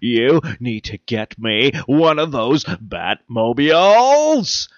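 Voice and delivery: slow, weighty campy TV hero voice; a lightly done campy sixties TV hero; Adam West. Pretend. Host apologizes for the short episode as a campy TV hero, slowly. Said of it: "do it as Adam West".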